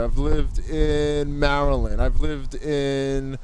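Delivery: muffled speech behind a mask; through a face mask. Real, not acted. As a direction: talk through a cloth mask. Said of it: "Please excuse the mask muffling".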